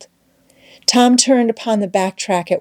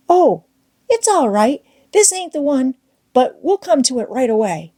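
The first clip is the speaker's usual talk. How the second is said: Tom pitched up, forced cheer; cheery Tom; 6 semitones higher than usual. A narrator's reading. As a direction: brightly reassure Becky as Tom. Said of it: "he would say cheerily".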